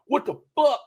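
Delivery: high-pitched, incredulous outburst; losing it. Retold or imitated. Comedian reliving seeing cheesecake, high amazed outburst. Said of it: "I was losing it".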